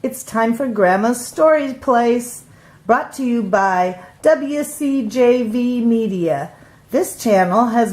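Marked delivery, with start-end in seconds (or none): 0.0-6.5 bright announcer voice opening the show; announcer intro. Acted.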